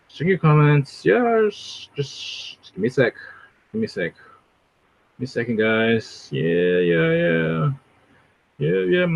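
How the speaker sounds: laid-back streamer impression, idly filling time; Vocab, flat tone. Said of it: "like, flat tone. He's just, like".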